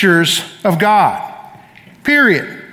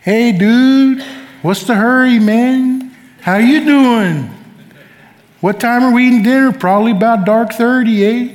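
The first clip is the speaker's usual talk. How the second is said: easy, lazy Alaska native talk, a hint of slur; Alaskan native accent. Preacher mimicking how he talked after Alaska, Alaskan accent. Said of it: "I'd talk just like that".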